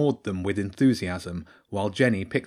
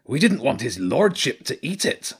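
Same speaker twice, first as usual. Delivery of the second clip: higher-pitched rat character voice; Zen; 5 semitones higher than usual. Acted. Rat excuses himself to dog's owner, high defensive voice. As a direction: make the excuse as a rat henchman.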